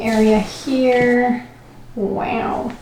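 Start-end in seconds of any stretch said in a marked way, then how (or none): none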